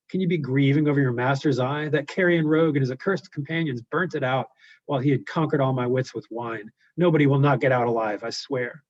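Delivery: a blind giant mourning aloud to his ram; Cyclops voice. Acted.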